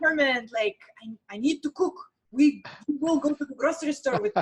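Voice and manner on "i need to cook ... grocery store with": mock-threatening tone with a heavier accent. Recalling what she once said to her host parents, retelling it threatening-sounding. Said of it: "It sounded pretty threatening".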